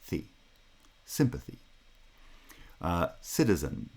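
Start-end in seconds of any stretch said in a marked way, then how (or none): 0.0-0.2 "Thi" as a separate "thee", unreduced; isolated final syllable. Shown as a demonstration. Lecturer isolates sympathy's last syllable, unreduced. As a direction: say "Thi" alone with a full ee vowel. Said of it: "that final syllable".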